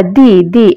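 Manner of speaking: দি repeated with an ee vowel; emphatic "the" as দি. Shown as a demonstration. Teacher showing the emphatic form of "the", দি with ee. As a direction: say দি, দি, each rhyming with "bee". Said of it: "তখন কিন্তু কি হবে".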